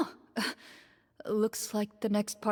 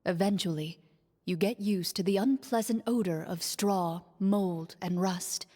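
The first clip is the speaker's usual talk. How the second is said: steady, even game master narration; scene narration. A narrator's reading. Game master describing the dark prison to players, measured narration. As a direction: paint the dungeon for the players, evenly.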